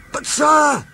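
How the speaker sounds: can't hold the news in; bursting out. Acted. Donald interrupts the Fat Controller, bursting out. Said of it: "burst out Donald".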